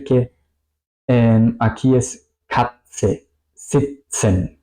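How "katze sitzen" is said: "Katze, sitzen" with T held, then long hissed S. Shown as a demonstration. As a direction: draw out the S after T in "Katze, sitzen". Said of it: "con una S muy larga". ("Katze, sitzen" con S muy larga tras la T)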